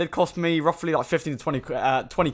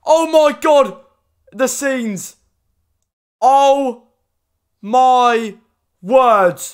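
much higher and louder ecstatic shriek, laughing; excited scream; 10 semitones higher, 8 dB louder, much slower than usual. Real, not acted. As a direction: scream with joy at a huge pack. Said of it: "I, like, screamed".

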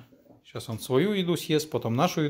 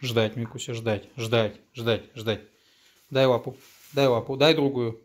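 commanding a dog; 4 dB louder than usual. Real, not acted.

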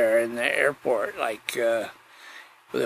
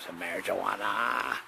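quiet repeat; 4 semitones lower, 11 dB quieter than usual. Pretend. Drawn-out repeat of the word.

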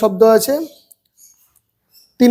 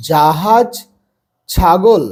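slow, measured syllables; broken into syllables; much slower than usual. Shown as a demonstration. Teacher reading practice words for beginners, syllable by syllable. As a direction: hold each syllable of জাহাজ and ছাগল. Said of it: "ভেঙে ভেঙে পড়বে".

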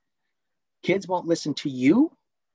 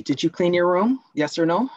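pushy parent, pitch raised, louder; demanding parent; 5 semitones higher, 4 dB louder than usual. Acted. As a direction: press the child for a yes or no. Role-play asking Tony as parent.

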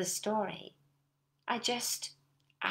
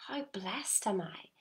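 soft grateful thought; 4 dB quieter, slower than usual. Shown as a demonstration. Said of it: "Just to think".

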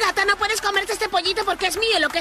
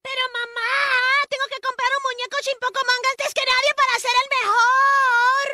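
whiny crying. Acted. Eric begs mom, whining.

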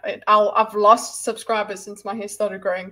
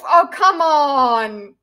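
mock whine; 3 semitones higher, 6 dB louder, much slower than usual. Reacting to chat joke.

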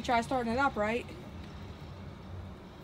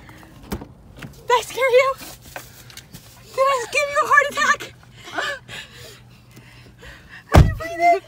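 giggly teasing; 12 semitones higher, slower than usual. Real, not acted. Teasing scared friend.

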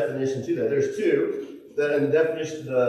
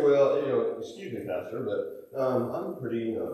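mock excuse; 4 semitones lower, 4 dB quieter than usual. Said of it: "I can say".

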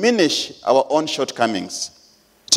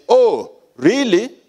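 wife's retort; 8 semitones higher, slower than usual. Retold or imitated. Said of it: "My wife said".

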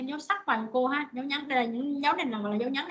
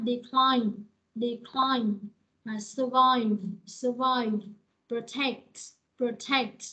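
"decline", "survive", "protect" as de-CLINE, sur-VIVE, pro-TECT; stress on second syllable; 4 dB louder, much slower than usual. Shown as a demonstration. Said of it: "những từ này đều là nhấn âm hai hết".

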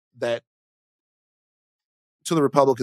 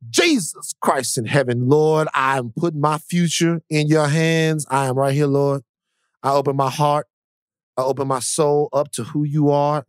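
mock prayer; 2 semitones higher than usual. Shown as a demonstration. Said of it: "you gotta hit your knees and you gotta say".

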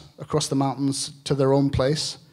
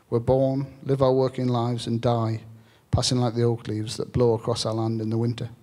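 book reading; 2 semitones lower than usual. Acted. Author reads a passage about farming to the audience, measured reading.

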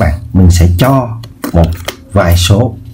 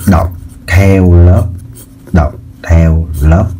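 drawn out for the class to repeat; slow and deliberate; slower than usual. Shown as a demonstration. Teacher dictating a rule to pupils, slow and clear. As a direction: say each word slowly and clearly. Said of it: "Thì để đọc các bạn bước một".

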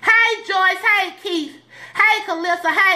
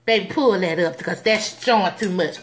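scolding church mother; 9 semitones lower than usual. Retold or imitated. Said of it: "here go mama again".

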